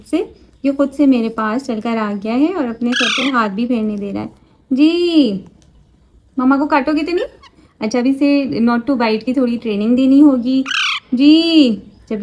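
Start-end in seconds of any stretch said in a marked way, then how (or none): 4.7-7.2 put-on 1 playful baby talk. Asking parrot playfully.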